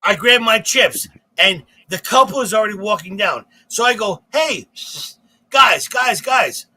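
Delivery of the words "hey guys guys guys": higher-pitched retold call after people leaving. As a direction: call them back, pitched up. Calling after couple walking away.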